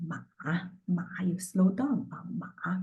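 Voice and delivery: ma slowed, dipping down then up; third tone ma. Shown as a demonstration. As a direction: Mandarin third tone ma. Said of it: "And the third tone".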